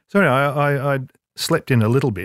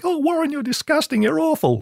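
high, mock-scandalized squeal; mock disgusted producer. Producer scolding Warren on set, high mock-scandalized squeal. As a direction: play a prissy, appalled producer. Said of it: "the producer was screaming".

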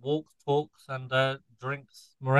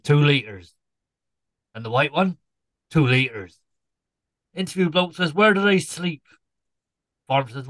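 Tommy Cooper joke telling. Acted. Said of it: "tell my joke in the style of, um, Tommy Cooper".

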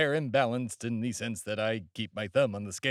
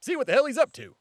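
higher, brash showman voice; pompous host character; 4 semitones higher than usual. Acted. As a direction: barrel in like a self-important pundit. Comic host character opening.

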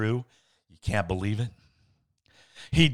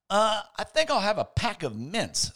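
higher, lightly voiced shy man; Hatch voiced; 11 semitones higher than usual. Hatch asking the newsman for mints, timid. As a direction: ask timidly, trying something new.

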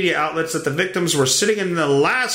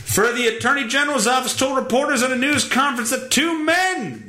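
normal talking voice

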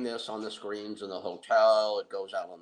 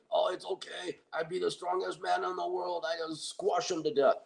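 boastful fighter voice; 9 semitones higher than usual. Retold or imitated. Tony voiced boasting in gym.

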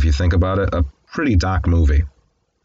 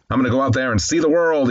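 higher-pitched eager quote; mildly excited, pitched up; retold excitement; 6 semitones higher than usual. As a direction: lightly imitate an eager young traveler. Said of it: "He's excitedly talking to the guy".

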